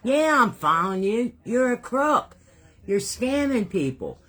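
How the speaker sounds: high, loud accusing shout; angry retort. Retold or imitated. Woman confronting the scammer on the street, angry shout. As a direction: throw the accusation right in his face.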